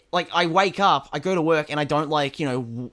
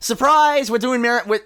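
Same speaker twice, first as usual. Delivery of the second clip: big loud surprise reveal; excited; 8 semitones higher, 6 dB louder than usual. Real, not acted. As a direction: shout it out like a reveal. Surprise announcement of next franchise.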